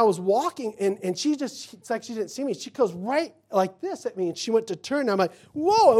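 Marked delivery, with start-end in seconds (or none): 5.5-6.0 loud, high startled cry; retold alarm. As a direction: yelp as if a car swerves at you. Nearly hit by turning car.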